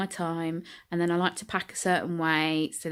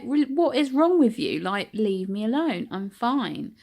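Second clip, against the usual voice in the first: annoyed outburst; 4 semitones higher, slower than usual. Retold or imitated. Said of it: "I was getting visibly quite annoyed".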